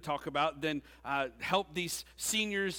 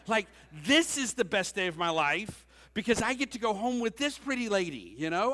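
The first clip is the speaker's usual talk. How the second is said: higher, louder, bubbling with delight; excited; 6 semitones higher, 6 dB louder than usual. Retold or imitated. Pastor recalling his thought about his wife, eagerly excited. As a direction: gush about the new wife.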